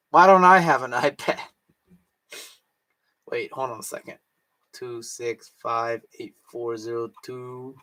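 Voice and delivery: usual speaking voice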